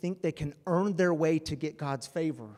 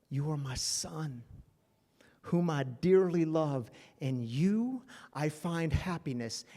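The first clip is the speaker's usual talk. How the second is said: voice from heaven; slower than usual. Acted. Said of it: "this voice from heaven shouts down".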